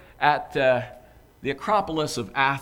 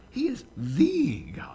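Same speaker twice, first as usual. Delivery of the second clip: slow breathy whisper on the God; emphatic whisper; 8 semitones higher than usual. Acted. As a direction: hush it as the big reveal. Paul's climactic claim, emphatic.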